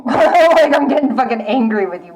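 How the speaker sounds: laughing through mock anger; amused half-hearted anger. Real, not acted. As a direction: laugh as you say you're angry. Laughs while claiming anger.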